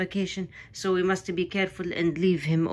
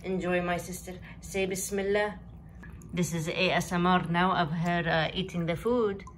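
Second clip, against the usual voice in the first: hushed; 7 dB quieter than usual. Real, not acted. Quiet during cat ASMR.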